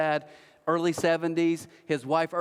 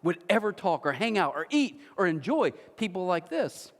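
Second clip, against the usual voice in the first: mocking Pharisees; 4 semitones higher than usual. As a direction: sneer it out like a sniffy religious elite. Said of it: "they literally walk by and they're like".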